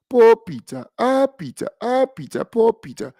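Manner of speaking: high, falling mock lament; hammed-up pitying wail for poor Peter. Host pretends to pity a beaten politician, mock pity. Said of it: "Ah, sorry for you".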